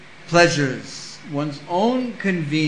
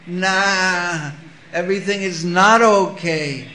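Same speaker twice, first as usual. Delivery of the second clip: bleating goat; 5 dB louder, slower than usual. Retold or imitated. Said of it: "the one sound that a goat can make".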